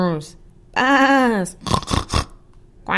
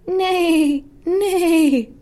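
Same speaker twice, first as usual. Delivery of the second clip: much higher louder horse whinny; 11 semitones higher, 6 dB louder than usual. Acted. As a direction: neigh it like a horse. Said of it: "whinnied the horse".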